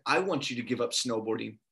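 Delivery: low, soft, measured words; inner voice of God. Retold or imitated. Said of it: "I have this thought".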